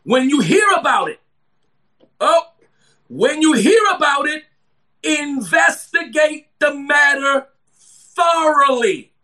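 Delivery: preacher drawing out each phrase; emphatic scripture reading. Real, not acted.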